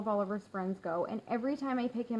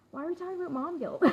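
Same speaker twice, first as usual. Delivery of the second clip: ordinary talk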